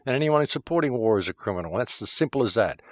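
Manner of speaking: loud, heated ranting at the system; angry rant. Real, not acted. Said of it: "I got a little emotional there".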